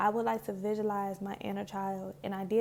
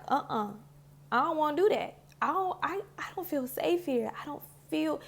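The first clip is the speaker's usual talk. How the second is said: put-on higher, frightened child refusing; a lightly voiced anxious child saying no; scared little girl; 5 semitones higher than usual. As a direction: plead like a small girl who won't budge. Inner child refusing, voiced by speaker.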